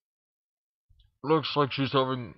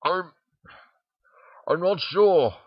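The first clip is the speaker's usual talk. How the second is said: lightly voiced Twilight, a touch higher and hesitant; a hint of Twilight admitting she has no answer; unsure confession; 5 semitones higher, 6 dB louder, slower than usual. A narrator's reading. Twilight confessing to Dash, mildly higher and unsure. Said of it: "Twilight confessed".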